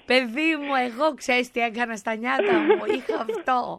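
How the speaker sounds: lightly voiced scolding grandmother; a hint of an old Greek mother lecturing; grandma scolding. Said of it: "Και να λέω".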